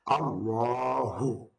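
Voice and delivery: আল্লাহু with a thick, dark lam; heavy lam Allahu. Shown as a demonstration. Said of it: "লাম হরফকে মোটা করে পড়তে হয়". (মোটা লামে আল্লাহু)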